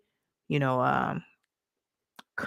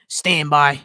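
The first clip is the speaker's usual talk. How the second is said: lightly voiced Boston man's stand-by call; a hint of a Boston impression; Richie from Boston; 3 semitones lower, 6 dB louder than usual. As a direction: put on a Boston character for a quick announcement. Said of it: "in my Richie from Boston voice".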